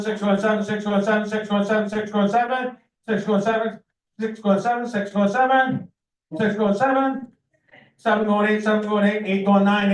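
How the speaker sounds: rapid rhythmic auction chant; auctioneer. Real, not acted. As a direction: rattle off bids like an auctioneer. Auctioneer calling bids.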